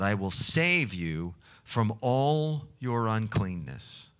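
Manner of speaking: measured, solemn Bible reading; scripture reading. Acted. Scripture reading before prayer.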